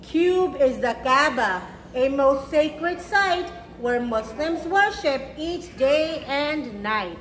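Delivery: gentle rhyming storybook read; reading to children. A narrator's reading. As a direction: read it slowly to little kids, savouring each rhyme. Reads picture book to children.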